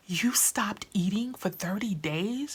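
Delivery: breathless disbelieving whisper, retold; shocked whisper. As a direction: hiss it out like you can't believe it. Retelling her shocked reaction to friend.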